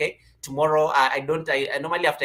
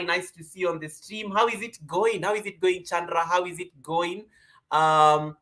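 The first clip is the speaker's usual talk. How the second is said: normal talking voice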